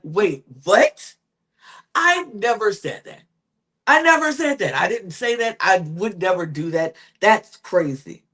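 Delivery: imitating an offended denial, pitch jumping on the protest; retold indignant protest; mock indignation. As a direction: act out mildly outraged disbelief. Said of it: "And she gets mad and angry".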